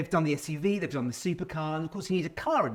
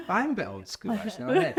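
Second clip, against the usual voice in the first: laughing; 6 semitones higher, faster than usual. Real, not acted. Joking about being old school.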